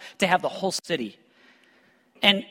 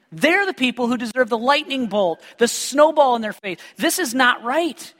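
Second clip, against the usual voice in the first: indignant Pharisees; 4 semitones higher than usual. Retold or imitated. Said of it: "this is what the Pharisees are saying".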